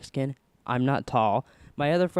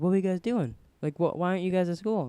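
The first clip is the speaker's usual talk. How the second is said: lightly voiced interrogator, pitched up; higher, mildly mocking questioning; imitated questioning adult; 5 semitones higher, faster than usual. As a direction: mimic a grown-up grilling kids. Adults questioning the truant boys.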